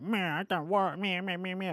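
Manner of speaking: a whiny meh meh; mock the complainers with a sulky drone; mocking whine. Streamer mocking fans who complain about new content, whiny. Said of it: "people that are like".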